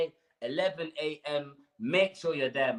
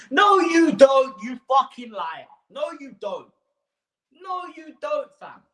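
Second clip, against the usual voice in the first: furious shout; 8 semitones higher, 10 dB louder than usual. Real, not acted. A fan answering the chairman's excuses, furious shout. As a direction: shout it high and loud, slowly. Shouting back at Levy impression.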